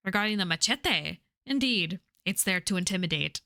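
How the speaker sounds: swooping, theatrical dialogue reading; lightly voiced pub characters. Pub boss and Mister Moore trading words, lightly acted. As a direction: voice the lines with a touch of Irish accent.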